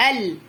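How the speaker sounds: ال halted on a held ل; teacher resting on the closed ل in ال; braked stop. Shown as a demonstration. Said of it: "السكون اهو اللي بنقف عليه زي الفرامل".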